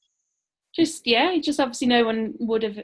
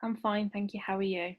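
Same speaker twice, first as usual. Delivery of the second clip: lightly put-on polite voice, lower and softer; silly put-on voice; 4 semitones lower, 8 dB quieter than usual. Real, not acted. Wife greeting husband over Zoom at recording start, silly put-on voice. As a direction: softly answer in a slightly affected, formal little voice. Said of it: "Why are you putting on a silly voice for?".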